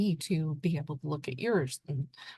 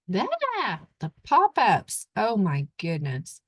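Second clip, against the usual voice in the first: sudden high exasperated yeah; 4 semitones higher, 4 dB louder, slower than usual. Real, not acted. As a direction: groan at the pop-ups, loud and high. Annoyed by website pop-ups.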